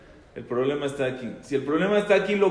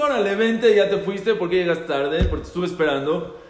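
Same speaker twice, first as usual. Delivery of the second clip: mock scolding call; 3 semitones higher, 5 dB louder than usual. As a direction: call out like a brother hurrying you. Brother calls him out, teasing.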